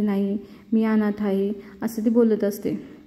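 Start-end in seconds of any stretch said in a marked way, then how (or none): 0.0-1.5 slow, subdued telling of "अनाथ"; quiet sad admission. Retold or imitated. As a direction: say it slowly, a touch downcast. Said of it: "ती थोडी शांत बसते".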